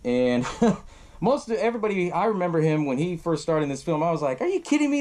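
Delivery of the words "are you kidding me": higher-pitched mock incredulity; retold disbelief. Viewer spots the Dodgeball kid as lead, retold disbelief. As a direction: relive the disbelief with a raised voice.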